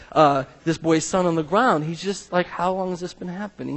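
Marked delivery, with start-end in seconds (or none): 2.5-3.8 diagnostic. Retold or imitated. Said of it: "He sounds very diagnostic".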